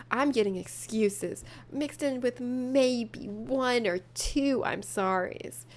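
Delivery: slow, soft dramatic read; sultry voice. Acted. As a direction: linger on every word. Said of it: "What is this sultry voice?".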